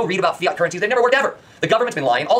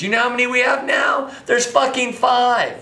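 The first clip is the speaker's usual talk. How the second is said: angry shout; 5 semitones higher than usual. Real, not acted. Furious rant, shouted question.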